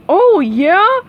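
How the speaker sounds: loud, high Patrick challenge; shout. A narrator's reading. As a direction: fire back a dopey dare. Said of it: "shouted Patrick".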